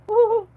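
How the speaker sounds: high, loud whoop; woo-hoo cheer. Real, not acted. Relieved at not closing tomorrow, cheering whoop. Cheering to self at work news.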